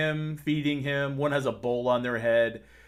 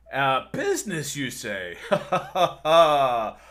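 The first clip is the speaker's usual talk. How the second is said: a lightly voiced manly heartthrob, slow and grand; a hint of a vain, handsome ruler; 2 semitones higher, 4 dB louder than usual. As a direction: vain human king greeting the party, lightly manly voice. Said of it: "He's got this very manly voice".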